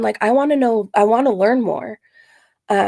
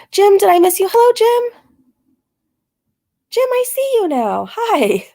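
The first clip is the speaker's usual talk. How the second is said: much higher, louder bright hello to a viewer; excited greeting; 11 semitones higher, 4 dB louder than usual. Real, not acted. Greeting viewer Jim in chat, excitedly calling out hello. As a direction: call out happily to a friend in chat.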